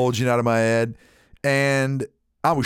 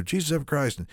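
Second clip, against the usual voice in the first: a softer mutter of Jesus effing Christ; under his breath; 3 semitones higher, 5 dB quieter than usual. Retold or imitated. Man stuck at the gas station mutters under his breath. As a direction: grumble it to yourself, annoyed. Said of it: "under my breath".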